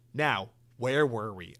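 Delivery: drawn out slowly and knowingly; slow knowing musing. Pretend. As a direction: savour each word slowly. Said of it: "and we can go".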